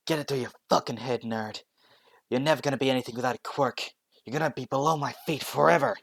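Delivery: loud sneering bully; bully's taunt. Acted. Bully Bakugo sneering at Deku, harsh and loud. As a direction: snarl it down at the crying kid.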